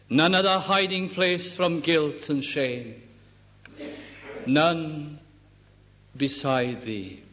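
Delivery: slow, solemn hymn recitation; recited hymn. Shown as a demonstration. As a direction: read each line slowly, like a sacred poem. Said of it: "Now listen to that hymn".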